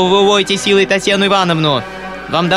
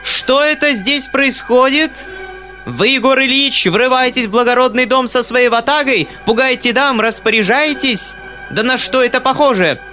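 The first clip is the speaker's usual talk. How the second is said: high, furious tirade at Egor Ilyich; furious yelling; 9 semitones higher, 3 dB louder than usual. A narrator's reading. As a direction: scold him in a shrill rage. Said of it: "продолжала она вопить". (яростный крик, высоким голосом)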